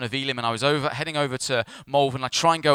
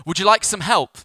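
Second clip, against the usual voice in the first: higher, louder eager offer; retold calling out; 6 semitones higher, 7 dB louder than usual. Pulls up beside broken-down car, retold calling out. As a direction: call it out brightly through a car window.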